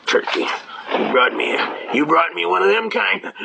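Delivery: laughing through a mock prosecutor's complaint; imitated prosecutor, choked with amusement; laughing retort. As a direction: retell it while cracking up, rising at the end. Prosecutor's retold reaction, teller laughing.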